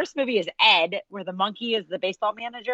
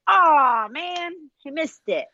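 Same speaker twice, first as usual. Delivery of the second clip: high, slow, whiny letdown; mopey, half-passionate groan; whiny Kevin Costner; 7 semitones higher, much slower than usual. Retold or imitated. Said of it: "that kind of that whiny face".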